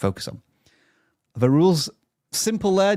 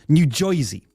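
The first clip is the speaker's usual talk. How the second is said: New Yorker accent; 2 semitones higher than usual. Shown as a demonstration. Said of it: "New Yorker accent".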